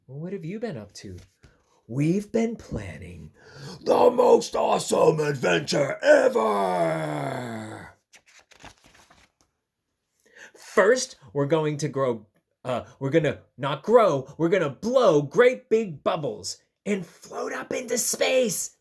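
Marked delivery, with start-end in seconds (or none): 1.9-18.0 loud, slow, thrilled storyteller creature; excited adventure plan. Acted. Narwhal describes adventure plan. 18.0-18.8 hushed wonder at the end; awed whisper. Acted. Dramatic word in plan.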